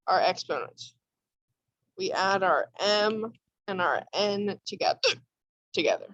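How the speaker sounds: hiccup breaking the word; talking through bad hiccups; suppressing hiccups. Real, not acted. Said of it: "Sorry, I have really bad hiccups right now".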